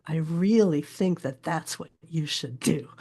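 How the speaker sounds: "i REALly THINK that THAT'S what YOU should DO"; weak-strong beat through "I really think that that's what you should do"; iambic meter. Shown as a demonstration. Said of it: "talk in iambic meter".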